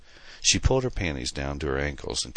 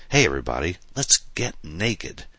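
put-on drunken party call; 2 semitones higher than usual. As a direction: stretch it out like a tipsy tease.

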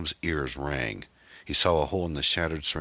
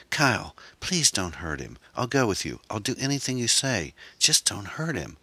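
high, pleading woman's voice; frightened high-pitched bargaining; desperate begging; 7 semitones higher than usual. Acted. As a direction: beg him in a rising, high voice. Erin begs Kyle to spare Tom.

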